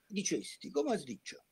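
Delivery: high, alarmed cry of a father; startled cry. Retold or imitated. Cavalcante jumping up, crying out to Dante in alarm. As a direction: jump up and cry out in shock. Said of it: "se levanta de repente y grita".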